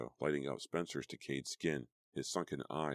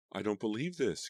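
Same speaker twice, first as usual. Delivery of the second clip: mild wail; 7 semitones higher, 3 dB louder than usual. A narrator's reading. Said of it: "Cassie wailed".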